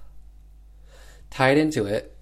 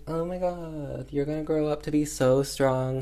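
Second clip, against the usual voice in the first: put-on baby talk; 5 semitones higher than usual. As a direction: coo down at the baby in the crib. The speaker talking to the baby.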